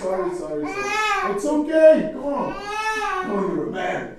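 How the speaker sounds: crying. Acted. Apologising and consoling in tears.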